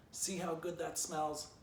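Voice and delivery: high, slow jeer; slow taunting shout. A narrator's reading. Stick Dog taunts the squirrel, slow and high. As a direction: drag the taunt out. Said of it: "Stick Dog continued shouting".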